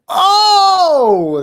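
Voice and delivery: sudden high loud "Oh"; excited exclamation. Real, not acted. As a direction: burst out in delight. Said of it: "there's the accent".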